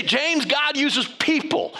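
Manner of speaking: put-on a light Hutterite accent, drawn out slowly. Agent Alvin telling pastor James, slow mild Hutterite accent. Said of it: "the Hutterite accent".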